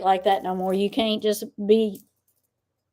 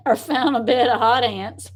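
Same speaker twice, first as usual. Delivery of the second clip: laughing. Real, not acted. Teasing while laughing.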